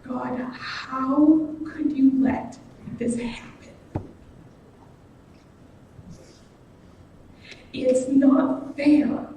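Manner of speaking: slow, hushed complaint to God; bitter whispered prayer. Retold or imitated. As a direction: whisper it slowly, hurt and resentful. Retelling his angry prayer to God.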